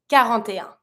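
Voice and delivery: "Quarante et un" flowing as one word; smooth liaison. Shown as a demonstration. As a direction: link "Quarante et un" without breaks. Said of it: "make as smooth as possible".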